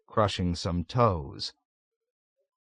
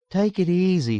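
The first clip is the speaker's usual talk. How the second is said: easygoing, placating appeal; calm them with an uncertain grin; affable counsel; 9 semitones higher than usual. A narrator's reading. Texan soothing the upset ward, affably. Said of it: "counseled affably with an uncertain grin".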